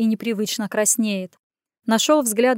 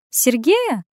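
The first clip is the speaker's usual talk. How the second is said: surprised; 3 semitones higher, 3 dB louder than usual. Acted. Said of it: "удивилась она".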